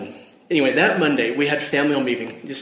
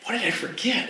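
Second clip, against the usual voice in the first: panicked inner thoughts. Retold or imitated. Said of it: "My mind started racing".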